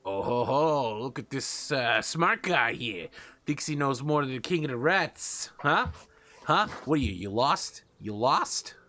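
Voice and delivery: a lightly voiced sneering rat boss; mocking rat king. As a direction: taunt the upstart like a smug rat king.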